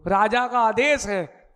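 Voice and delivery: loud, slow proclamation; proclaiming. Acted. Trickster invokes the king's order to boatmen, loud and slow. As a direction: announce it slowly like a royal order.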